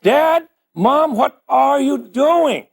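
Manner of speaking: high, loud, slow mock kid; hammed-up child asking; imitating the kids. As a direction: call out like a curious child. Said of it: "the kids are gonna come in and say".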